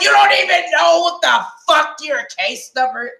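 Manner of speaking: retold anger. Telling her friend how angry she got, exasperated rant. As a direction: snap it out in disbelief. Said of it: "I really got angry at her".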